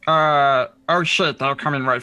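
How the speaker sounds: alarmed guide. Acted. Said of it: "turns to each of you and says".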